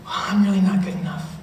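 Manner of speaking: a mild hint of despair, low and soft; self-doubting thoughts. Student doubts their worth before Jesus, quiet low inner voice. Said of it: "thinking these things of".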